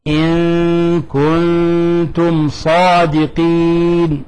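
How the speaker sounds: very slow chanted verse; slow recitation. Shown as a demonstration. Teacher recites the example verse, slow chant. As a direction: stretch the verse out calmly. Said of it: "في قوله تعالى".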